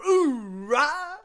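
high booming Marine cry; loud gung-ho soldier. Retold or imitated. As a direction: shout it like a hyped Marine. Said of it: "It's like chanting".

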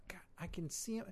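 hushed aside, breathy and low; sudden secretive whisper. Real, not acted. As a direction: whisper it so he won't hear. Spotting guest in the lounge.

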